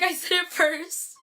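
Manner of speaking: FIRST drawn out, high; mock insistence. Retold boast, repeated for effect.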